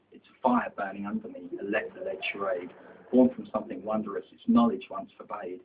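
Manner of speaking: measured, rhythmic poem reading; poetry recitation. Acted. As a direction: recite verse in steady, phrased lines.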